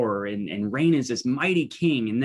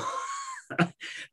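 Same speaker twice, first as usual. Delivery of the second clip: a short, choked, self-conscious laugh; embarrassed laugh; 8 dB quieter than usual. Real, not acted. Pastor caught off guard by his own tears, soft embarrassed laugh. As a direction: laugh it off as the emotion catches you. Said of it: "I don't know why I'm getting emotional".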